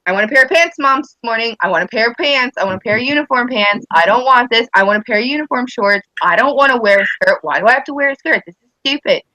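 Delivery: imitated complaining daughter. Mom imitating her tomboy daughter refusing a skirt, whiny mock protest. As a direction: mimic a child's repetitive whining demands. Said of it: "She was like, it was like".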